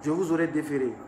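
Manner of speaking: put-on light Senegalese accent on the commissaire's threat; hint of a Senegalese official's accent; imitating a Senegalese police chief's accent. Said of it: "Avec l'accent sénégalais".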